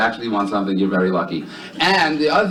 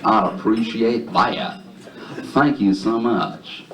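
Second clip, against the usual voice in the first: heavy, stretched-out Southern drawl; exaggerated Southern accent; thick Southern drawl; 3 semitones lower than usual. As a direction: lay on a thick, slow Southern twang. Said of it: "answers him in a thick, heavy Southern drawl".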